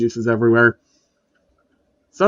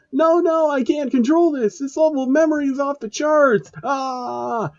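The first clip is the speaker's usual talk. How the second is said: villain powering up; 14 semitones higher than usual. A narrator's reading. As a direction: strain it out like a villain losing control. Villain losing control.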